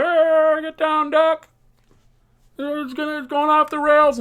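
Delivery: high, urgent mock yell of warning; retold frantic warning. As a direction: warn everyone to duck, half-acted. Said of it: "I'm just screaming to people".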